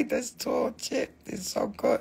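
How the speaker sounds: high, soft breathless whisper; excited whisper. Real, not acted. Seller gushing to viewers about a bargain, excited whisper. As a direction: whisper it like a secret steal. Raving about the cheap price.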